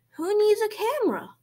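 loud, high rhetorical question; delighted exclamation. A narrator's reading. Principal delighted by the drawings.

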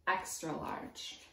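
slow whisper of extra large; hushed. Acted. Teacher to kids, a playful slow whisper. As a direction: drop to a slow whisper for fun. Reading a size list to kids.

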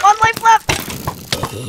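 very slow ominous drawl; dramatic slow warning. Pretend. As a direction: stretch it out ominously.

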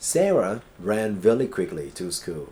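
very slow, deliberate example sentence; slow model reading. Shown as a demonstration. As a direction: lay out each word for the class. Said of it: "teacher reads example sentence". (อ่านประโยคตัวอย่างช้ามาก)

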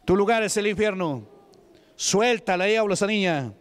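firm preaching voice rebuking the devil; preacher commanding the devil; stern exorcism commands. Acted. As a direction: order the demon out of the girl. Commanding the demon to leave.

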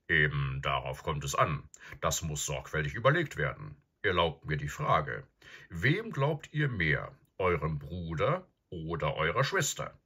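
lightly voiced professor, deliberate and emphatic; grave old professor. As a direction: question them like a thoughtful old professor.

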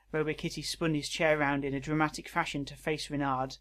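measured read-aloud narration; narrating a written story. Acted.

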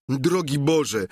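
a squire gushing with simple delight; Sancho. Acted.

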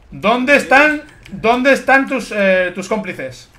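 slow, drawn-out interrogator; mock interrogation. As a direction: play a slow tough questioner. Mock interrogation of captured player.

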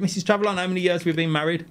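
husband calling his wife to ask how long they've been married. Real, not acted. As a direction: call out to your wife in the next room. Calling to wife in another room.

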